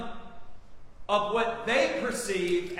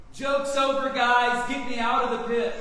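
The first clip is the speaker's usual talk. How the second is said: louder, pleading cry from the pit; desperate begging; 3 semitones higher, 6 dB louder than usual. Acted. Joseph begs his brothers from the pit, louder and pleading. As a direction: beg them to pull you out. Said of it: "He's begging them".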